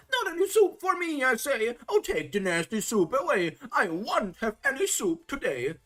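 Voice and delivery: high, loud whiny refusal; a weak boy still shouting at his soup; crying out stubbornly. A narrator's reading. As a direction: yell it like a stubborn child. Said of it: "he screams as loud as he is able".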